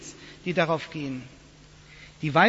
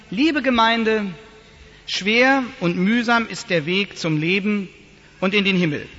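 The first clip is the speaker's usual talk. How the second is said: mock exhausted pastor. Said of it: "keuchend, stöhnend, ächzend".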